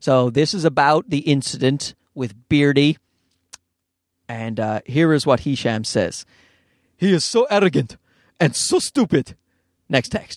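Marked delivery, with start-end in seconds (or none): 7.0-9.3 put-on Egyptian accent in English, attempted. Reading out texts Hisham sent, imitating Hisham in an Egyptian accent. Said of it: "It's the closest thing I can get to an Egyptian accent".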